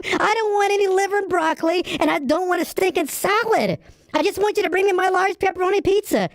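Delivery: fed-up customer snapping at the clerk; angry outburst. Acted. Customer yelling at a pizza clerk, angry. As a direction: loses patience and lets it all out. You don't have to yell at me.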